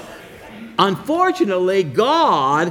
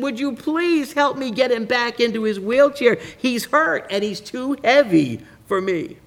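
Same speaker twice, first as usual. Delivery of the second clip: mock sobbing plea; 5 semitones higher than usual. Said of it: "sobbing, the boy pled".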